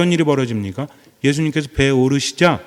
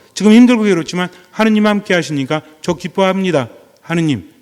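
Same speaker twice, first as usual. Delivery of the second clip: joyful prayer demo; 4 semitones higher, 4 dB louder than usual. Shown as a demonstration. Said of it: "이렇게 하는 거예요".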